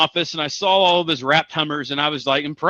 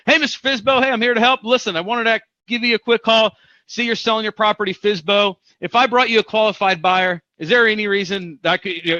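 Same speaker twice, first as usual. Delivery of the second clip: upbeat phone pitch, much higher, helpful tone; friendly sales call; 4 semitones higher than usual. Shown as a demonstration. Agent cold-calling a for-sale-by-owner seller, upbeat and friendly. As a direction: sound like you're here to help. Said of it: "we wanna call the fizbo".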